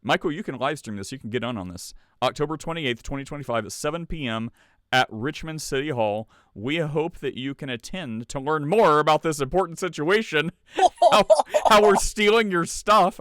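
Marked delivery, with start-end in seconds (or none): 2.2-10.5 higher, formal proclaiming read; town crier. Pretend. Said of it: "like a town crier". 10.8-13.2 sarcastic laugh. Pretend. Mocking aside after reading.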